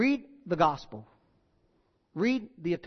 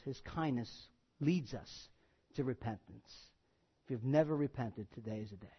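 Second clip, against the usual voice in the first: softer, lower, sincere plea; earnest altar call; 5 semitones lower, 7 dB quieter than usual. Real, not acted. Preacher quietly urging listeners to turn to Jesus, sincere. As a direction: draw them gently toward repentance.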